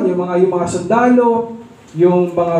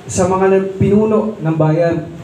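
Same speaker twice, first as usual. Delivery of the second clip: usual speaking voice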